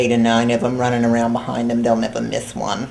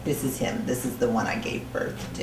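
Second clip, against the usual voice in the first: put-on softer, dropped-down New Jersey accent; 8 dB quieter than usual. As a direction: introduce him in a lowered New Jersey accent. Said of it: "accent came from".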